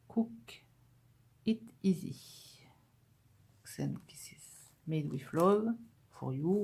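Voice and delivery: slow, careful English in French accent. Real, not acted. Vlogger reading English stickers aloud, slow English accent. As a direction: read the English out slowly, accent put on. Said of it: "comme je parle bien l'anglais".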